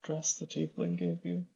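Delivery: soft, low aside to a friend; hushed but still voiced; whispered aside. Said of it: "Basil's gonna whisper to Pepper".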